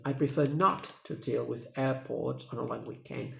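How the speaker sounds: "not" stressed in the sentence; teacher demo of the stressed "not". Shown as a demonstration. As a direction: lean on the word "not". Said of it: "The stress word is not".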